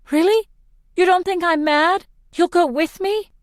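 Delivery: can't believe her luck; joyful disbelief. A narrator's reading. Overjoyed at his agreement.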